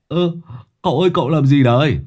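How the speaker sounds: a servant squawking at his master; shrill call-out. A narrator's reading. Long calls out to his master cooking the fish, quick and shrill. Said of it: "kêu lên choe choé".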